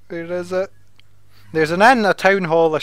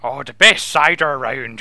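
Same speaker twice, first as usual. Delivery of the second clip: mock pirate; 5 semitones lower than usual. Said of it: "an Irish pirate".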